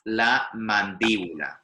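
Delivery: mandíbula slowed, with DÍ stressed; stress on the accented syllable. Shown as a demonstration. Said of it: "the stress is almost always".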